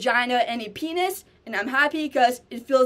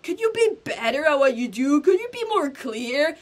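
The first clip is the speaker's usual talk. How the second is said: higher nagging demand from a viewer; mocking critic; 4 semitones higher than usual. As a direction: play the picky viewer wanting more. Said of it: "you're like".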